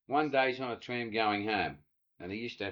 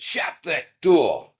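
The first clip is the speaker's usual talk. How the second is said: curt order; 2 semitones higher, 8 dB louder, much slower than usual. Retold or imitated. Woman snapping at Charlie.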